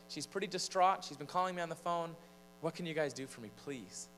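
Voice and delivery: acted urgency, softening into a please; urgent plea. Retold urgent plea to dispatcher.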